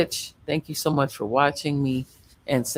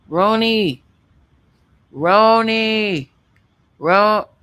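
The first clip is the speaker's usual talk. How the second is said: calling out; 7 semitones higher, 8 dB louder, much slower than usual. Real, not acted. Calling out to Roni.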